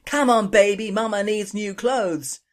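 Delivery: loud, high Irish brogue shout; mock Irish brogue cheer at the dice; Irish brogue yell. A narrator's reading. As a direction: yell it in an Irish brogue, slow on the last words. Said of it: "in her Irish brogue yelled".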